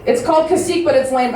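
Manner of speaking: lightly mock an offended audience member; offended heckler. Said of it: "she was personally offended by that".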